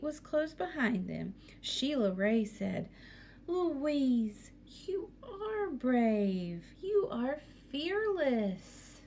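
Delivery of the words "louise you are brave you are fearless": sincere praise. Acted. Big sister praises little sister.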